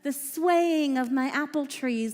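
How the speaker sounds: put-on a delighted girl thanking her dad; happy princess daughter. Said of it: "And Princess Tapuach said".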